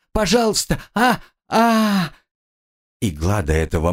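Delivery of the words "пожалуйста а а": higher still, breaking into cries of pain; Пожалуйста pitched much higher, then a cry; desperate pleading. Acted. Captive begs again in pain, higher desperate pleading with cries. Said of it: "пленница снова взмолилась".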